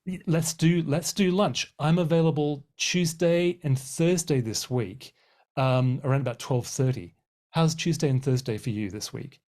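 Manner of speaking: a bright, energetic let's do lunch; eager invitation. Shown as a demonstration. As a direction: sound keen, pin the date down. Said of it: "So how about trying this?".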